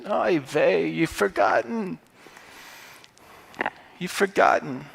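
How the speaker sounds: put-on Paul sighing in a mild Jewish accent. Paul chiding believers in a soft Jewish accent. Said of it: "the Jewish accent".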